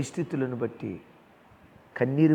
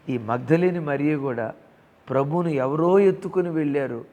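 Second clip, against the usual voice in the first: preaching louder; 3 semitones higher, 7 dB louder than usual. Real, not acted. Preacher raising his voice.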